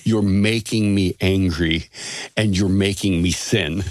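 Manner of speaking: slow, measured retold reproach; matter-of-fact. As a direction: state the complaint evenly, no threat in it. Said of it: "I said this very matter-of-factly, uh, not in a threatening way".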